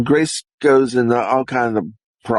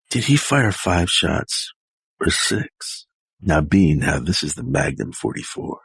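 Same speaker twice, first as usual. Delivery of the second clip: Clint Eastwood; 5 semitones lower than usual. Retold or imitated. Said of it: "Clint Eastwood".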